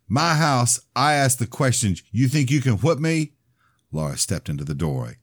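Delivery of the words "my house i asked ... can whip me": much higher, louder bullying shout; bully cousin hollering a dare; furious taunt. Acted. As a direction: assert who owns the house. Ronnie escalating the quarrel.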